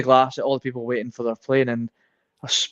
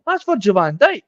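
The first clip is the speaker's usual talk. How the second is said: higher-pitched excited exclamation; imitating an excited blurt, not a full shout; retold near-shout; 5 semitones higher than usual. Starstruck traveller pointing out Virgil van Dijk, mock near-shout. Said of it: "pretty much shouting it".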